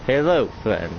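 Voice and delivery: a hint of a Russian accent. Putin greets the stranger, light Russian accent. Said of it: "I'll try and put on a Russian accent".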